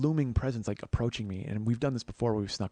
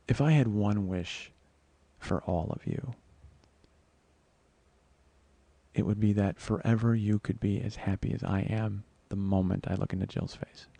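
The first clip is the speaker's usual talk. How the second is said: tender. Real, not acted. Sincere wish on seeing her face.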